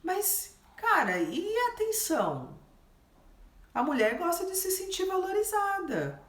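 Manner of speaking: high honeyed voice for a client; sweet teasing voice. Acted. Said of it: "Você fala, Ô, lindo".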